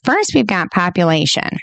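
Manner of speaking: lightly voiced flat Gates delivery; a hint of Bill Gates' measured tone; a mild impression of Gates reading his slide; imitating Gates. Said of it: "I feel like that's how he talks".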